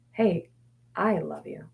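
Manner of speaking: soft and tender, almost hushed; tender self-talk. Shown as a demonstration. Talking to her anxious mind, a soft tender I love you. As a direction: gently send love to the gremlin. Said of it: "is to send it love".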